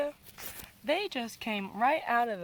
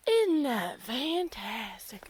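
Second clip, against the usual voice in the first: slow southern drawl; put-on southern, drawn out; southern accent; slower than usual. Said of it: "that was southern".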